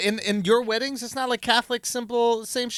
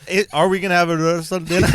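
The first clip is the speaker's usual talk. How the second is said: put-on Indian accent; 4 semitones lower, 4 dB louder, faster than usual. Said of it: "I thought my Indian accent is good".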